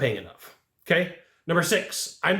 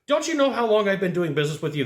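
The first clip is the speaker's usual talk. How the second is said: guilt trip; 4 semitones higher than usual. Retold or imitated. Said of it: "This is a guilt trip".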